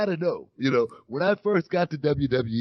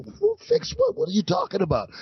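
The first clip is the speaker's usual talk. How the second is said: higher-pitched, incredulous retold question; baffled retold reply. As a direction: act out being totally lost. Baffled reply in retold phone call.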